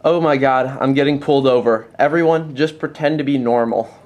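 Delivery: fast, alarmed "I'm getting pulled over"; panicked movie quote. Acted. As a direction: blurt it like the cops are behind you. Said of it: "Pulled over is what you should focus on".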